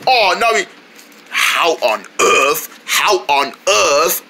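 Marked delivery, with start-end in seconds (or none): 1.3-4.3 put-on slow, drawn-out British accent; mock British accent. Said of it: "not your British accent again".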